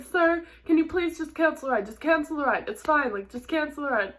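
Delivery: high, hurried retold plea; freaking out. Rider begging driver to cancel the ride, freaking out. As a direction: act out frantic begging, without real tears. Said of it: "So I start freaking out".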